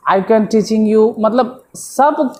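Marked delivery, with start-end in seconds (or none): 0.1-1.1 very slow drawn-out quote of the wrong sentence; slow mocking read of a student's mistake; wrong sentence quoted. Shown as a demonstration. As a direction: spell out each word of the error slowly. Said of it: "अजीब अजीब सा".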